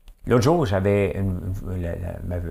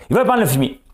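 mocking exclamation; 10 semitones higher, 6 dB louder, faster than usual. Mocking the politician's line.

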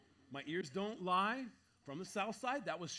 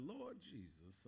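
hushed mock alarm; 5 semitones lower, 12 dB quieter, slower than usual. Hearing gunshots, quiet aside.

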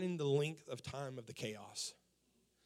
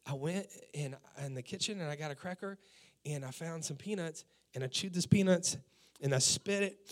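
put-on little girl voice. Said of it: "And she said".

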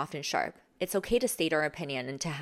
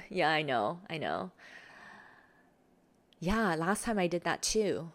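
slow nonchalant. Shown as a demonstration. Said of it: "You carry more of a slow, nonchalant energy".

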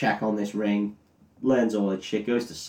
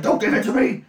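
a sudden much higher mock yelp; hammed-up alarm, pitched way up; panicked refusal; 14 semitones higher, 3 dB louder than usual. Gandalf recoils from the ring.

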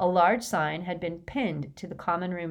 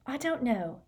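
unsure; 7 semitones higher, 4 dB quieter than usual. A narrator's reading. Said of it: "biting her lip".

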